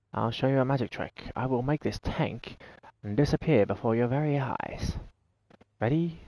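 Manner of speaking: lightly hammed-up stage magician, softly spoken; mock magician. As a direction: present the trick with a touch of showman's mystery. Plays magician announcing a trick.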